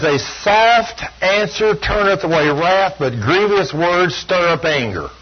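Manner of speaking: slow, deliberate verse reading; measured pulpit reading of scripture. Shown as a demonstration. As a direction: read the proverb slowly and weightily. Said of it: "Chapter fifteen, it says".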